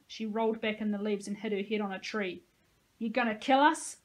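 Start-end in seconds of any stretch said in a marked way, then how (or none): 3.0-4.0 growled threat, louder, with hatred. Acted. Josie growls at the soldier, full of hatred. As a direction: snarl it at the soldier, daring him. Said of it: "she growled as she rose".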